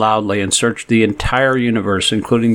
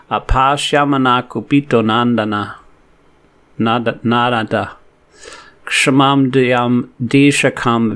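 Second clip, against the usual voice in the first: measured devotional recitation; unhurried scripture chanting; slow Sanskrit verse recitation. Acted. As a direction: chant the verse slowly and evenly.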